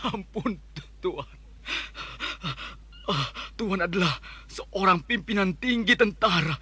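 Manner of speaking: trembling plea for mercy; begging in fear. Acted. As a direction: grovel and beg, terrified.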